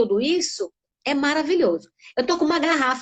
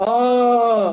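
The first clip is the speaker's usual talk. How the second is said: thick, fat, very deep, drawn-out "oh"; 3 semitones lower, 5 dB louder than usual. Teaching a child what a deep sound is, a very deep 'oh'. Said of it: "vamos fazer um som bem grosso".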